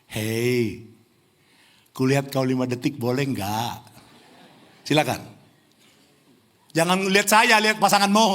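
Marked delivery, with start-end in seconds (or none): 0.0-3.9 tender. Shown as a demonstration. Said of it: "Tolong bilang".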